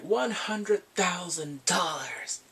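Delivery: slow, whispered bid; a hushed, deliberate auction bid. Retold or imitated. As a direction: breathe the offer slowly. Barbara's like.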